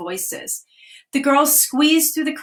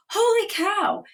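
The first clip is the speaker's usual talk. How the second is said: surprised; 9 semitones higher than usual. Acted. Girls discover a beached whale.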